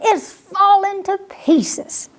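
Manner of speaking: slow, puffing whispered words; breathless whisper. Acted. Pip tells his sister the tree is broken, breathless whisper. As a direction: say it out of breath, barely voiced. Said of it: "puffed Pip".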